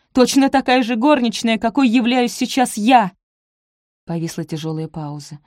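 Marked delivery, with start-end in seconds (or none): 0.1-3.1 loud, higher, bitter blurt. A narrator's reading. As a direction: fling it at him bitterly. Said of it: "выпалила".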